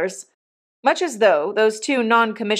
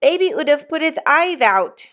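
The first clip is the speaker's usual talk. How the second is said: put-on high-pitched childish lisp; lisping little girl; 7 semitones higher, 3 dB louder than usual. A narrator's reading. Little Jane excusing herself to mamma, lisping and high. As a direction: explain it like a small lisping child. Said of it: "lisped the little girl".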